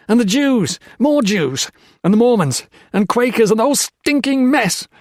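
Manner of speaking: loud, high furious tirade; raving at the priest about bloodshed. A narrator's reading. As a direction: hurl every grievance in rage. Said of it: "Peter Marlowe raved".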